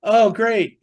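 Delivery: loud, high-pitched retold outburst; imitated yelling.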